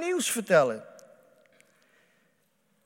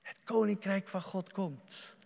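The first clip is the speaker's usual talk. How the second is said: softer, hushed repetition; quiet echo; 7 dB quieter than usual. Acted. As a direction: let it sink in, said softly.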